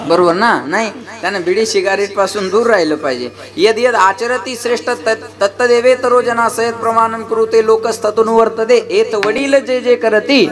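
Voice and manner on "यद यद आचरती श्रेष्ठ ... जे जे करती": scripture recitation. Acted. Recites scriptural verses to the congregation.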